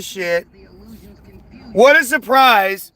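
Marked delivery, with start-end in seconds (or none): 1.7-2.9 sarcastic feigned surprise; mock surprise. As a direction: pretend to be surprised, dripping sarcasm.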